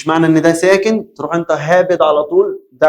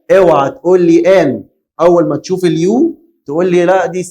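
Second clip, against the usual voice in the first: loud warning; 2 semitones higher, 4 dB louder than usual. Shown as a demonstration. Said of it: "هنا هتاخد آ".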